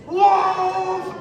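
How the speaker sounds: loud, high call of the word; shout. Real, not acted. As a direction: shout it with wolf claws up. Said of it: "When I shout wolf".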